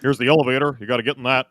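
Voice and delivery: lightly voiced Obama with pauses; Obama impression. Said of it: "I can't do an Obama".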